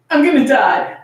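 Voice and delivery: put-on whiny child. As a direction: whine it like a scared kid. Child repeats panic line.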